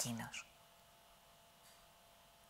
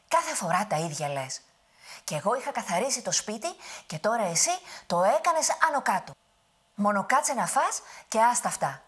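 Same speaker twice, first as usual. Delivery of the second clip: louder, higher scolding; scolding grandmother; 5 semitones higher, 6 dB louder than usual. Acted. Grandmother scolds the giant for messing her house. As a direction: tell him off like an exasperated granny. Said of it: "τον μάλωσε".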